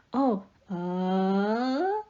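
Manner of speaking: lightly acted flustered "oh", trailing into a long "uh". Flustered character faced with a suitor, mock flustered. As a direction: play a mildly flustered love interest. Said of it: "they're very flustered".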